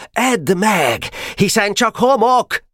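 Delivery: high, drawn-out battle taunt; shouted taunt. A narrator's reading. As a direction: throw the taunt down in a high call. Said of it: "kiáltotta". (magas, elnyújtott, csúfolódó kiáltás)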